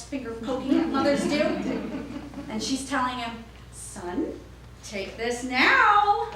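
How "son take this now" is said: slow, stern, deliberate order; stern mother. Retold or imitated. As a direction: spell it out firmly to the child. Mother pokes and orders son.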